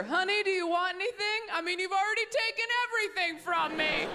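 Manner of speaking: sweet on top, a knife underneath; a wife sniping at her husband at a party; passive-aggressive sweetness. Retold or imitated. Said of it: "I'm just gonna get another beer".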